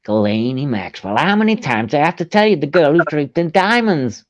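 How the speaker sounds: lightly exasperated mock American; Jeffrey Epstein impression. Answering who Delaney is, still in the Epstein accent. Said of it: "That's my accent for G".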